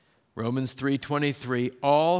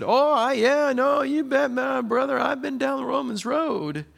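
much higher and louder, gushing and cheerful; eager churchy guy; 12 semitones higher, 4 dB louder than usual. Retold or imitated. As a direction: play the overeager guy proudly reciting a slogan. Preacher voices man met downtown.

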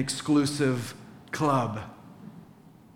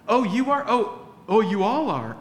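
higher, louder hurt surprise; mock surprise; 4 semitones higher, 3 dB louder than usual. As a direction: act caught off guard by the news. Left out, learns of dinner.

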